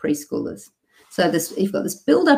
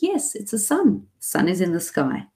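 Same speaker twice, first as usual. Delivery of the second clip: gentle modeling; 4 dB quieter than usual. Shown as a demonstration. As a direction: gently model the word for a toddler. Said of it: "way number two was".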